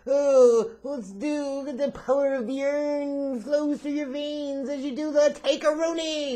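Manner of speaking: very high, drawn-out silly whine; mocking fan voice. Host mocking whoever wanted the Taker-Rooney, high silly voice. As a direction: squeal it in mockery of a gushing idea.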